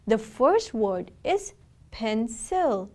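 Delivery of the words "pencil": "pencil" said slowly in two parts; syllable by syllable. Shown as a demonstration. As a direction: stretch out "pencil" as pen, then sil. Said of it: "There are two syllables in the word pencil".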